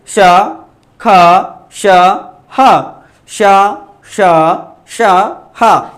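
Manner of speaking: श, ख, श, ह each hissed out with pauses between; sounding out sounds. Shown as a demonstration. Teacher asks students to say it themselves, hissed श and breathy ह. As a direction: let the breath hiss through श श श, then a breathy ह. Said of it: "आप खुद बोल कर दे".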